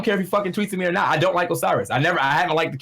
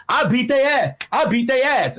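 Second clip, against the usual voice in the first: higher mock yell, repeated; retold drunken yelling; 8 semitones higher than usual. Retelling the drunk guy at the venue, mock yell. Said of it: "he just started yelling".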